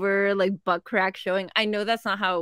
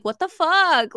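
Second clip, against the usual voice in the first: higher, louder retold outburst; mock outraged disbelief; 7 semitones higher, 6 dB louder, slower than usual. Quoting the husband's reply in the fights, mock outraged disbelief. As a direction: burst out as the baffled husband. Acting out his baffled reply.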